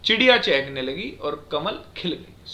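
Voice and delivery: slow, measured चिड़िया चहकने लगी और कमल खिल गई; resume deliberately from चिड़िया after the stop; after semicolon pause. Shown as a demonstration. Teacher rereads the example after pausing, slowly from चिड़िया to खिल गई. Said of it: "उसके बाद हम रुके".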